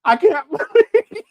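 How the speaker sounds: hammed-up disbelief; mock disbelief. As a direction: imitate her stunned whine. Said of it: "she was like".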